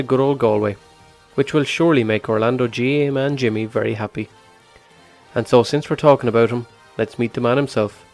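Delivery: scripted voiceover read over music; documentary narration. Acted. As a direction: read it like a radio feature intro.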